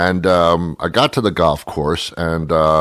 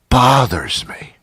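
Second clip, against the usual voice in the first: slow, higher, voiced and strained; pent-up irritation; 4 semitones higher, slower than usual. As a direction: draw it out, barely containing annoyance. Repeats the whispered complaint voiced.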